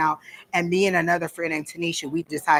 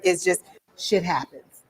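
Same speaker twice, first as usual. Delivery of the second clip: slow blunt quote. Retold or imitated. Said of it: "that's how he said it".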